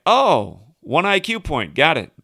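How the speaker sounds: loud, sarcastic brush-off; retelling a friend's snarky put-down; sarcastic comeback. Retold or imitated. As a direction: swat the insult away with a sneer. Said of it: "She's like".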